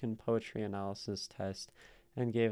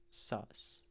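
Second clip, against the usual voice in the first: whispered aside; 2 semitones lower, 5 dB quieter than usual. Real, not acted. Muttered comment to herself.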